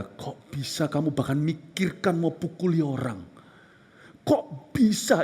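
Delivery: inner voice rebuke. Retold or imitated. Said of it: "di hati saya ada yang berkata".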